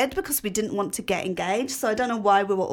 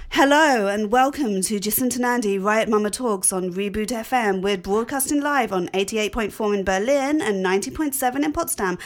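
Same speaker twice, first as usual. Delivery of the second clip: posh accent. Shown as a demonstration. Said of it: "shall I do posh?".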